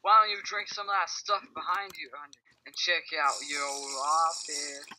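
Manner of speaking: a hint of a Southern twang; Southern accent. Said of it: "why are you Southern?".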